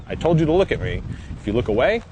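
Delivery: a stern handler demanding focus. Retold or imitated. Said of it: "So the finished product will be".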